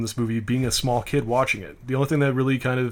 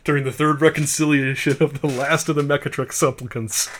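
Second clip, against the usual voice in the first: laughing while reading. Real, not acted. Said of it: "hard to read it without laughing".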